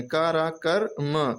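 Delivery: syllables said separately and firmly, का, रा, कर, then म; teacher's step-by-step sounding out of का, रा, कर, म; sounded out piece by piece. Shown as a demonstration. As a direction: blend का and रा into कर, then add म on its own. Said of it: "इससे इसको मिला देंगे".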